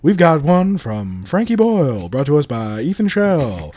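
tee it up like a show host; professional host intro. Shown as a demonstration. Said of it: "tee this up like a professional".

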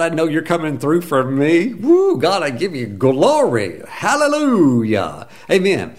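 rising, fervent praise; praising God. Pretend. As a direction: pour out glory to God.

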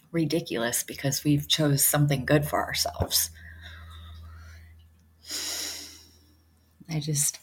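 hushed, breathy whisper. Real, not acted. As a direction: drop to a whisper. Hushed personal aside.

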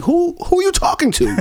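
high, laughing question; laughing disbelief. Retold or imitated. Bartender to drunk talking to chair, high laughing. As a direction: ask it through a laugh.

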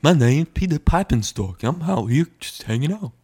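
laid-back surfer bro voice. Acted. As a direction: chill surfer dude intro. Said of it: "a surfer, bro".

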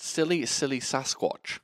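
slow careful lisp through aligners; slow careful S words with a lisp. Real, not acted. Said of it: "Say silly".

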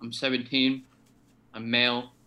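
chewing while introducing himself; mouth full. Real, not acted. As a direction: talk through a mouthful of food. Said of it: "you're eating something right now".

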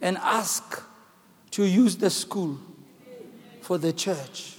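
low, soft, slow divine instruction; voice of God. Retold or imitated. God telling the pastor where to go, low and soft. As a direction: speak as God guiding him, quietly. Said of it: "And he says".

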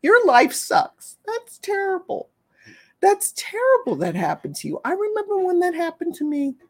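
soft pitying coo, swooping up high; overdone pitying sympathizer; mock pity. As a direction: lay the fake sympathy on thick. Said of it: "don't ever go to an animal and pity them".

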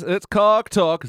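announcer jingle. Pretend. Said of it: "It's this".

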